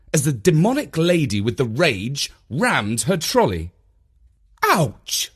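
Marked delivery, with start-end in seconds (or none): 4.6-5.3 hammed-up ouch. A narrator's reading. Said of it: "Mum winced".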